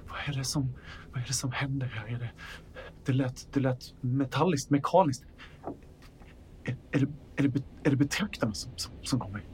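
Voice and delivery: hushed, frightened stammer; fearful, halting near-whisper; trembling fear. Acted. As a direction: falter and repeat words as if too scared to finish. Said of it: "med en skakande tass".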